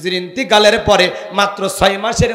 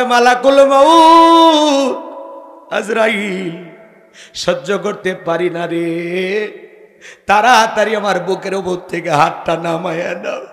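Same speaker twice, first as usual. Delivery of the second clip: mock tearful plea; 4 dB louder than usual. Preacher voices the weeping Prophet pleading with death's angel, lamenting. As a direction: imitate a weeping plea, stretching the name. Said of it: "চোখের পানি ছেড়ে দিয়া কাঁদে".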